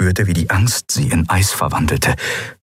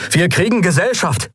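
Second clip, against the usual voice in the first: raised warning to the crew; calling out; 10 semitones higher than usual. Acted. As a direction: call it across the bridge, higher. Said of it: "rief Kai".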